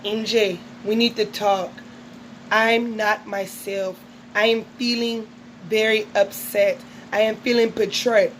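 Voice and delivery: lightly hammed-up soap heroine, measured words; soap opera melodrama. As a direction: play a hint of wounded telenovela drama. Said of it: "All My Children and the Spanish".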